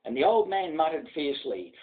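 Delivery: steady rhythmic ballad reading; poem recitation. A narrator's reading. Narrator reciting The Man from Snowy River to an audience, rhythmic ballad voice. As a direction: recite it like an old bush ballad for listeners.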